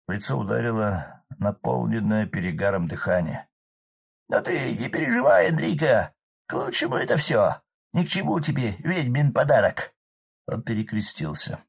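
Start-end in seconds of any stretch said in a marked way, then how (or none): 4.3-9.9 high loud rough village man; hoarse peasant shout. Acted. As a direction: bellow over the roaring fire. Drunk Arkady consoling.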